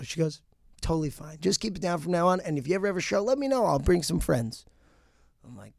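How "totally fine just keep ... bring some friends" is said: light woman voice. Retold or imitated. Neighbour woman continues.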